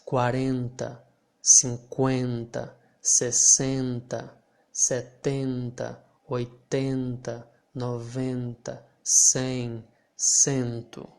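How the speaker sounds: slow careful count, each enta nasal like bang; teacher counting by tens. Shown as a demonstration. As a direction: drill the numbers slowly with nasal endings. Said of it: "enta here will sound pretty similar".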